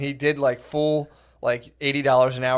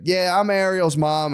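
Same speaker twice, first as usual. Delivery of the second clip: imitating daughter; 5 semitones higher, 4 dB louder, slower than usual. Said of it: "she's like".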